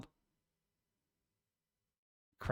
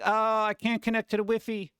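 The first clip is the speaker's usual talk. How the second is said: mock-cutesy whine, a little higher; lightly hammed-up cuteness; 5 semitones higher than usual. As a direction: put on a playful cutesy voice. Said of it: "like, cutesy".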